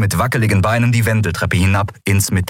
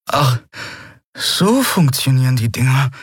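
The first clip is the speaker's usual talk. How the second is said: put-on slightly higher, amazed young voice; baffled murmur; 6 semitones higher than usual. Boy discovering how the weapon works, baffled murmur. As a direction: murmur it in honest astonishment. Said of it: "murmelte er, aufrichtig verblüfft".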